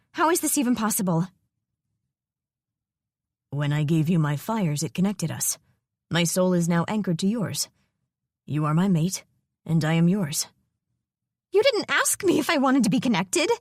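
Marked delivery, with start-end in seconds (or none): 3.5-10.5 lightly lower, steady male voice; a calm dragon explaining the bond; solemn, possessive dragon; dragon mate voice. Acted. Dragon voice speaks in her mind.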